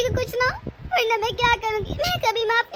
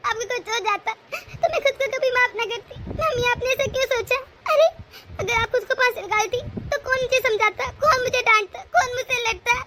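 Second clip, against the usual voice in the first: crying through the words with relief; tearful relief. Acted. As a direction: sob out your relief and reproach. Relieved daughter-in-law crying. (रोते हुए राहत)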